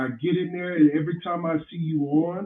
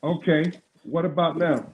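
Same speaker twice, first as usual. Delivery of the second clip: muffled bass only. Real, not acted. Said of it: "you sound muffled".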